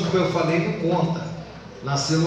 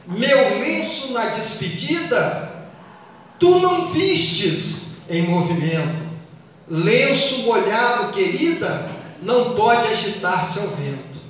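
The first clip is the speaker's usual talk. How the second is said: slow, measured verse reading, pausing between lines; poem recitation; slower than usual. Acted. Teacher reciting a farewell trova, slow poetic recitation. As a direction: recite the verse deliberately, line by line.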